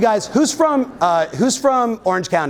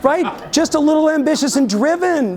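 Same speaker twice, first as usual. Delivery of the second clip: higher, put-on voice for the trainer from Compton; imitating the trainer; 10 semitones higher than usual. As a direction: lift the voice up to quote the trainer's praise. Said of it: "he's like".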